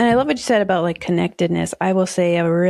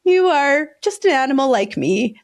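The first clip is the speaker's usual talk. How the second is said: slow, higher-pitched musing sympathy; compassionate; 5 semitones higher than usual. Acted. Speaker silently addressing a stressed stranger, compassionate. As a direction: take your time, gently recognizing a fellow creature. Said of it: "I'm so much more compassionate to people".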